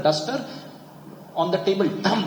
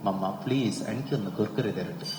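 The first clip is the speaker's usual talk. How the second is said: softer, calm polite request with no whining; calm asking; 4 semitones lower, 3 dB quieter, much faster than usual. Retold or imitated. A child calmly asking mummy for Kurkure. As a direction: ask politely without crying. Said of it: "കരയാണ്ട് പറയും".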